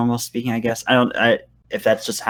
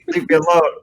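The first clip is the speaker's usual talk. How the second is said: mock leave me alone; 6 semitones higher, 5 dB louder than usual. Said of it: "It's like".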